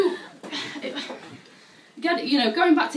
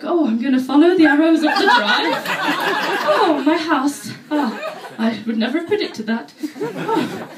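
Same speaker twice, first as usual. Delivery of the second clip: louder, laughing, mock-amazed; mock homeowner following arrows; 3 semitones higher, 5 dB louder than usual. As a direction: play a Swede delighted by floor arrows. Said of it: "you get home from work".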